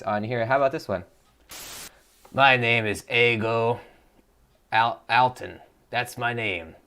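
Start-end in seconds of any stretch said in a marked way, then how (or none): 2.3-6.7 slow put-on persona voice; a lightly voiced odd character. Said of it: "that's what we call a Voice of Nick voice".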